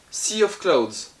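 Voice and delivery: slow, drawn-out English accent on Sea of Clouds; an exaggerated English accent, said slowly; mock English accent. Shown as a demonstration. Shop owner hamming an English accent on the game title. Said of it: "avec mon super accent anglais".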